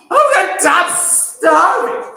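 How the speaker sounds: loud, slow, high mock teenage whine; whiny teenager. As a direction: ham up a starving teen's complaint. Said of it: "That's what teenagers say".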